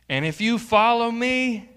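rising, loud call to follow; loud preaching. Acted. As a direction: lift it high and loud. Preaching climax.

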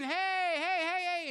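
mock panicked yells to a figure on the water; frightened screaming. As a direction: call out in alarm, half acted. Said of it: "they start screaming".

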